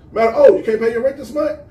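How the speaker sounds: high, loud mock sympathy with a laugh; mock pity. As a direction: sneer like a smug official pretending to care. Mocking the system to broke workers.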